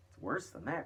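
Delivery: cried. A narrator's reading. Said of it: "cried the chief of police".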